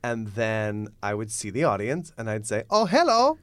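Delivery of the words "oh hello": high, loud Italian clown greeting; hammed-up comic Italian accent; stupid Italian accent. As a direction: greet the crowd as a silly Italian. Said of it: "in this stupid Italian accent".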